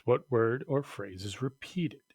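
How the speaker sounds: whispered question. Acted. Teacher asking the class in a whisper.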